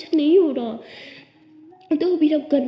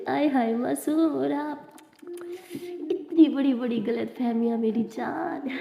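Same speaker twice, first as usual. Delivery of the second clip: teasing; slower than usual. Acted. Abira teasing Anokhi.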